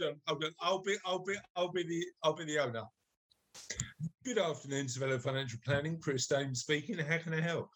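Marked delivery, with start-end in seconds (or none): 4.2-7.7 low-pitched posh business greeting; posh phone voice. Pretend. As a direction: answer as the posh owner of a financial firm. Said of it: "I'm putting my posh voice on".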